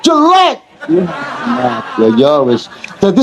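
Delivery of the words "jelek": much higher, laughing mock child; child scolding father. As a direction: whine at dad to stop the English.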